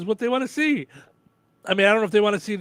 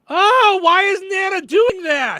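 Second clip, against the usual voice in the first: surprised outburst; 12 semitones higher, 9 dB louder, slower than usual. Pretend. Imagined viewer's outburst.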